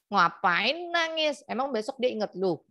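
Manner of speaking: imitated husband's incredulous telling-off; exasperated husband. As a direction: chide a crying partner in disbelief. Husband scolding his crying wife.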